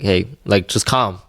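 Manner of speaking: mildly gentle, soothing demonstration. Shown as a demonstration. Father showing how he talks to crying kids, gently. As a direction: talk a child down, quietly and lightly. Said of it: "a very, very gentle tone".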